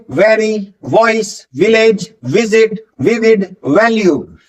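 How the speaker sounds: Very, वॉइस, विलेज as separate words, each V distinct; V sound drill. Shown as a demonstration. Teacher leading repeat drill, Very to वैल्यू with distinct V. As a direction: list them one by one with a clear V. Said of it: "जो वी sound है वो कैसे बोलेंगे".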